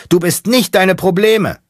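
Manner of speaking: very high, loud yell; shouting. Acted. Mechanic shouting his creed from the driver's seat. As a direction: scream the line out. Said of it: "Der Mechaniker schreit".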